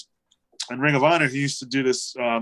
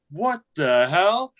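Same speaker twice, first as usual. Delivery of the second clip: puzzled "what the hell"; 5 semitones higher, slower than usual. Retold or imitated. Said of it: "I'm like".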